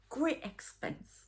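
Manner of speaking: high, drawn-out Geordie imitation; broad Geordie. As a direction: mimic a broad Geordie announcer, slowly. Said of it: "broader Geordie than that".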